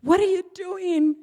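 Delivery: mock outraged daughter; angry daughter. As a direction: scold like the daughter catching her mother. Daughter confronting drunk mother.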